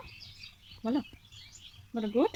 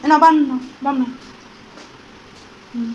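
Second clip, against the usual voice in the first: playful excited mock-scolding; 3 semitones higher, 14 dB louder than usual. Real, not acted. Mother playfully scolds dancing toddler.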